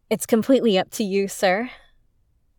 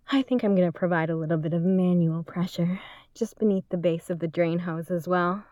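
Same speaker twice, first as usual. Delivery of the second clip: whisper. Acted. Intimate aside, unvoiced.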